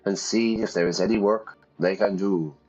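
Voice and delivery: noble man voice. Acted. Voicing noble Augustine.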